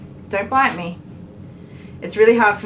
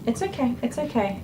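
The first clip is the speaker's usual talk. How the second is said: softer, higher soothing tone; reassuring; 4 semitones higher, 5 dB quieter than usual. Real, not acted. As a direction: soothe a nervous dog gently. Reassuring the nervous dog.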